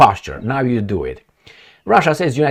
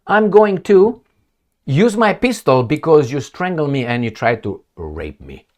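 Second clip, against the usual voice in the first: defiant woman; 3 semitones higher than usual. Retold or imitated. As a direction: punch out the opening at him. Woman defending herself.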